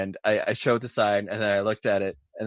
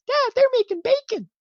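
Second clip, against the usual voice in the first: put-on very high, louder child voice; little kid; 5 dB louder than usual. Three-year-old calling out to his dad, squeaky kid voice. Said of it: "the kid looked at his dad and he goes".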